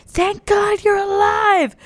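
high, slow frantic parent cry. Retold or imitated. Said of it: "my parents screaming".

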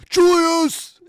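very high, loud call of the name; imitated yell. Coach Tibbs calling his player off the bench, very high loud yell. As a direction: holler across the court for him. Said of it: "just goes".

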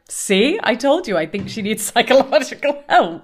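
loud, triumphant told-you-so; lightly mocking vindicated housewife; Heather. Imitating housewife proved right about her rival, mock triumph. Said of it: "so that Heather's like".

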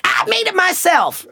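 deadpan snap back. Retold or imitated. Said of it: "fires back".

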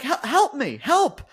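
high, whiny mock plea; hammed-up damsel crying help. Mimicking Io Sky crying for help mid-match, mock whine. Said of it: "She's like".

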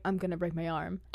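quiet laughing line; half-laughing panic. Retold or imitated. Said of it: "I was like".

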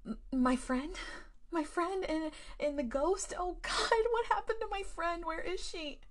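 high, loud, frantic questions; panicked babbling. Acted. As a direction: stammer out in rising panic. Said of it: "I began babbling".

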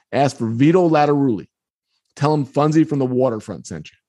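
lightly voiced tough guy giving orders; stranger's instructions. Bus rider telling a kid whom to ask for, lightly voiced instruction. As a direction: give the password in a level, matter-of-fact voice. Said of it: "He goes".

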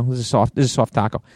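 put-on playful mild Boston accent; lightly put-on Boston talk. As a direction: lean on a Bostonian soft. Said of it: "say the word soft with the Boston accent".

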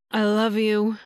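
half-hearted yell; mild yell. Acted. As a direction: call it out, understated. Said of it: "he yelled".

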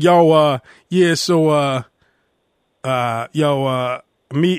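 hesitant African American English imitation; lightly put-on Black American athlete accent; Jeremy Lin impression. Host mimics how the player talks in interviews, Black American accent. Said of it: "He sounds black".

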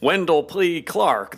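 a hint of the uncle's booming voice; Wendell P. Clark. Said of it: "they sound like".

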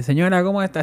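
put-on light Cuban accent greeting; lightly put-on Cuban accent, polite. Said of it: "Así con acento cubano". (leve acento cubano, saludando a la señora)

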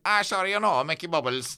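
a quick lightly put-on Cork accent; a passing Cork accent jab; Cork accent impression. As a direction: mimic a Cork local, high and bright at the start. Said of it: "That's the worst accent of all time".

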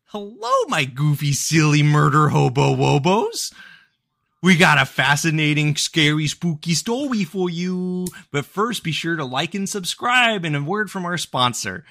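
high, sing-song, sugary true-crime host; mock YouTube hostess. Middle-aged women open a murder video, mock cutesy hostess voice. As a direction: coo it like a gushing video intro, hammed-up. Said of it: "two middle-aged white women are gonna come up and go".

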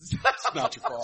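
breathy whisper of the famous line; whispered repeat. Retold or imitated. A whispered take on the Goodwill Hunting line for the other hosts. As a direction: whisper it to the friends. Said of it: "the Robin Williams".

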